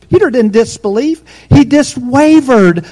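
emphatic. Acted. Preacher proclaiming to the congregation, emphatic. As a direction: announce it like good news. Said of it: "same line later, quiet".

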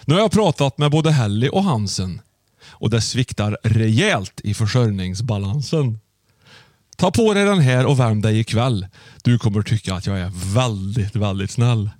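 measured, deliberate verse reading; rhyme recitation. Acted. Host reading a Christmas gift rhyme to Susanne, measured recitation. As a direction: read out a gift rhyme, pausing after each line. Reads the rhyme over music.

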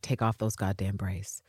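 slow, hushed, pointed; whispered demand. Retold or imitated. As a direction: breathe the order. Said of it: "her being like".

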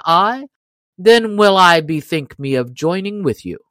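a hint of a stubborn giant daring them; loud, defiant boast, lightly acted; lightly voiced proud stranger.

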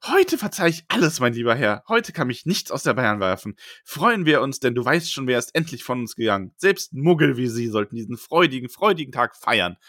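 lightly squeaky little man; a hint of a tiny squeaky man. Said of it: "sagt mit piepsiger Stimme".

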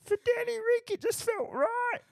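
pub bloke playing host; chatty bloke down the pub, signing off. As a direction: put on a pub regular's voice. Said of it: "I'd be down the pub".

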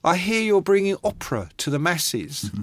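hammed-up punk jeer; Sid calling out. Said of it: "Sid bursts in and he goes".

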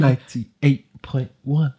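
very slow, drawn-out station ident; radio jingle voice. Pretend. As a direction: stretch every word like a jingle. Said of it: "do it again, do it again".

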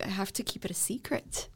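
whispered secret; whispering. Real, not acted. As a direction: hush it like a secret.

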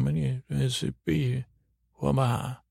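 garbled, half-formed mumbled words; Mumble Bear. Acted. Bear answers about the pocket watch, mumbling. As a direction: mumble it so nobody can follow. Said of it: "I'm mumbling to Mumble Bear".

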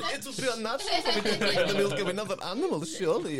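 mock German accent. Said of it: "I don't know why I'm going German".

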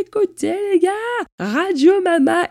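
voix aiguë de grande nouvelle, triomphante; annonce joyeuse. Pretend. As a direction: crier sa guérison comme une animatrice radio. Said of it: "je vous dirai". (annonce radio enjouée)

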